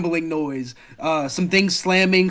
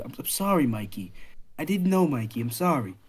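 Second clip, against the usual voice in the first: sorrowful apology; 3 dB quieter than usual. Acted. Consoling bereaved friend in a hug.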